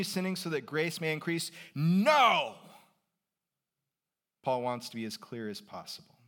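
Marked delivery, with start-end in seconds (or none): 1.8-2.6 one loud, higher no; emphatic no. Retold or imitated. Preacher voicing Paul's answer, loud no. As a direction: slam the door on the idea. Paul rejects continued sinning.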